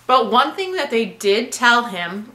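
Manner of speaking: talking while chewing gum; words around a piece of gum. Real, not acted. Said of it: "I'm sorry, I have gum".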